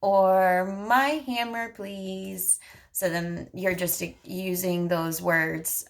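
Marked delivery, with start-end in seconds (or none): 0.0-2.6 put-on higher, slow and clear for a child; slow modeling voice. Shown as a demonstration. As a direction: stretch the words out for a toddler. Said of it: "then you could say".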